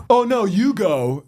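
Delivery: slow, syrupy mock courtesy; overly polite, dripping with attitude; smug fake politeness. Imitating a smug pedestrian waving the driver on, sarcastic. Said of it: "the attitude of being like".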